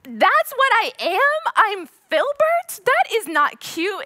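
high, loud, slow outraged protest; indignant disbelief. Retold or imitated. Telling her boyfriend she refuses to be Filbert, indignant. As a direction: protest in mock horror. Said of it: "And I'm like".

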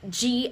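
g plus schwa with no puff; unaspirated G. Shown as a demonstration. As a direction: hold back the air on g. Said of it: "consonants that are unaspirated".

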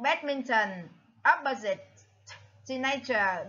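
badminton, opposite, teenager, each stressed at the start; first-syllable stress. Shown as a demonstration. Teacher lists matching words, badminton, opposite, teenager stressed on the first syllable. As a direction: lean on BAD, OPP and TEEN. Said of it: "the first stress".

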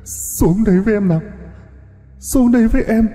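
high, eerie ghost voice, gurgling as if choking on water. A narrator's reading. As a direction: lure him down like a drowned ghost. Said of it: "với cái giọng ẳng ặng, cứ như là sặc nước". (giọng ma cao, ẳng ặng như sặc nước)

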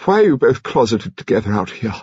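a hint of an imperious old lady; sardonic old lady. A narrator's reading. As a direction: grandmother quizzing her grandson and the nurse. Voicing Lady Lacklander.

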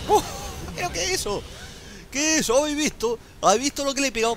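high, incredulous gamer squeal; amazed disbelief. Real, not acted. Streamer asking viewers about the huge damage he dealt, amazed high voice.

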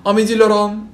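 Russian speaker putting on a French accent. Shown as a demonstration. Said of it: "сейчас с французским акцентом".

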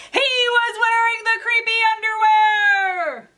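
sudden high, loud cry of disbelief; shocked reveal. A narrator's reading. Librarian revealing the twist to kids, high shocked cry. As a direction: hit the twist like a horrified gasp.

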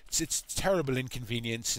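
lightly put-on British accent, bumbly and apologetic; a hammed-up British apology, barely shifted; horrible British accent. Imitating the mousy councilor in a bad British accent. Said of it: "I'm doing a horrible British accent".

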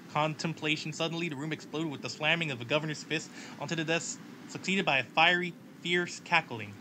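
dramatic story read with voices; story narration. Acted. Streamer narrating a game event story, dramatically. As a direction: read the event like a noir tale.

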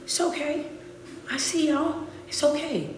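soft, high, hushed reassurance; hushed comfort. Real, not acted. Preacher softly comforting a stressed audience, hushed. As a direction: soothe them gently, almost whispering.

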